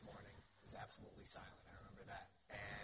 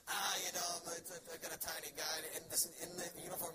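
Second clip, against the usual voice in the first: tag; 7 semitones higher, 6 dB louder than usual. Acted. Mock outcry at agent's suggestion.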